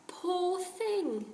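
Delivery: put-on a gentle boy's pity. Jack voiced in story.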